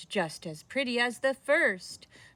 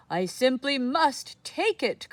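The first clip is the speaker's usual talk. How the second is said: excited cry; 5 semitones higher, 4 dB louder than usual. Acted. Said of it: "cried the very old man".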